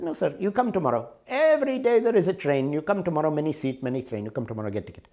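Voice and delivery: sing-song polite clerk brushing him off; railway clerk. Retold or imitated. Indian train clerk answering him.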